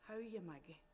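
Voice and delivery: soft, understated greeting in passing; quietly voiced greeting; quiet man. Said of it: "He was dark-eyed and quiet".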